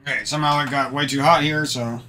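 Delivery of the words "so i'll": ordinary talk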